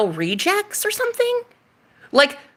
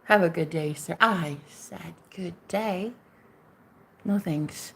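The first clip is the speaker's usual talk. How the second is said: cold dismissal; 5 semitones lower, 10 dB quieter than usual. Pretend. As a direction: shut him out icily. Dismissing a man coldly.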